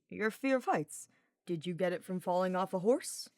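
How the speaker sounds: lightly voiced teasing knight; a hint of a cheeky young knight, grinning; Sylvain's voice. Sylvain teasing Hubert while carrying him, lightly voiced.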